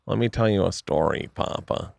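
light impression of a manager starting a tale; Barry's voice. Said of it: "this is what he sounds like".

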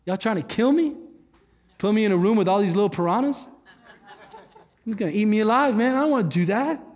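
put-on joking panic at teaching the kids; mock alarmed protest. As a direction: act horrified at being asked, laughing it off. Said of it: "And I was like".

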